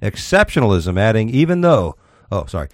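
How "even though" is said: high-pitched false start in mock Russian accent; Putin. Host starting Putin's boast, mock Russian accent. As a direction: begin a put-on Russian accent. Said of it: "Mister Putin also boasted".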